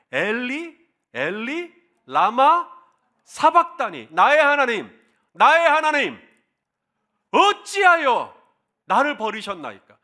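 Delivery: loud, high outcry, stretching the why slowly; Jesus crying out on the cross. Retold or imitated. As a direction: cry it out from the cross, anguished and loud. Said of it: "그 중에 한 마디가 뭐예요?".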